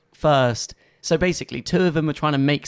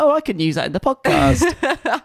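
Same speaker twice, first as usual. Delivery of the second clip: much higher, eager mock voice; mock excited; 10 semitones higher, 4 dB louder than usual. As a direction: tease him with a gleeful impression. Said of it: "I was like".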